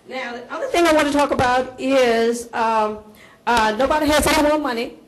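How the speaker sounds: loud, booming council testimony; big voice. Real, not acted. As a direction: project it to the back of the room. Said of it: "I got a big voice".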